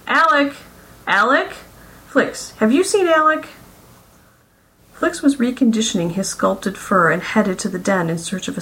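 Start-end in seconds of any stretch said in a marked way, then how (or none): 0.1-3.5 calling out. A narrator's reading. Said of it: "she called out for him".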